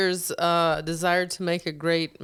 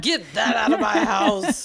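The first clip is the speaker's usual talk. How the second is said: a hint of a haughty host, higher and louder; mock snooty host; 5 semitones higher, 4 dB louder than usual. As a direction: lightly play a snobby host throwing out the chips. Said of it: "They're like".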